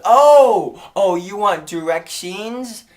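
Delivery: put-on loud, high, drawn-out realization in a Chinese accent; imitated Chinese owner. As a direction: stretch a big surprised "Oh", Chinese-accented. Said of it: "She goes".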